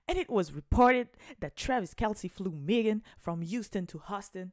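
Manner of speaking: the redo, a cleaner American English read; redoing the English line to fans with a better American accent; smoother English accent. Shown as a demonstration. Meilleur accent américain, plus fluide. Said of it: "Non, je refais".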